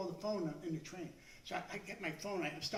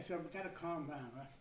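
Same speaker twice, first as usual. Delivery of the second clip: softer, lower murmur to yourself; calming self-talk; 5 semitones lower, 8 dB quieter than usual. Retold or imitated. Talking himself down.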